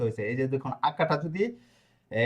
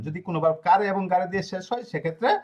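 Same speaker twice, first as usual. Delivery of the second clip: dictation pace. Shown as a demonstration. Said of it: "খাতায় এভাবে note করবেন".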